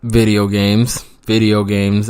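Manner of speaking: slow, deliberate punchline; savoring the punchline reveal; drawn-out reveal. Shown as a demonstration. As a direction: let the answer land slowly. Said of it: "you ask?".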